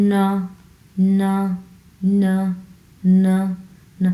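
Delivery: ন said through the nose; nasal n. Shown as a demonstration. Teacher demonstrating the nasal Chinese n, through the nose. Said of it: "নাকের স্বরে ন".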